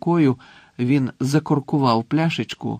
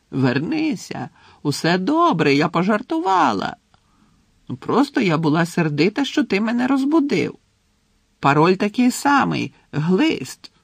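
calling after him; 6 semitones higher than usual. A narrator's reading. Portrait lady calls Harry back, admitting the joke, calling high. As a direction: call out pleadingly in a high voice. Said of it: "що кричала йому вслід".

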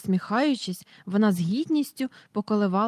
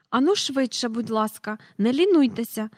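stern hurrying; 2 semitones higher than usual. Acted. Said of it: "суворо глянувши".

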